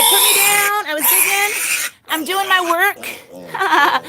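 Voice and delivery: high, drawn-out little pig voice; pig's protest. Acted. Owner speaks for the pig she picked up, high mock protest. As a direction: playfully voice a pig complaining up high. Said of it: "She's like".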